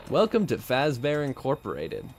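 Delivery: a hint of corporate welcome voice; lightly voiced commercial businessman; Fazbear Incorporated businessman. Shown as a demonstration. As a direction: greet them like a company spokesman. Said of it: "to hone my Fazbear Incorporated, uh, businessman, like, voice".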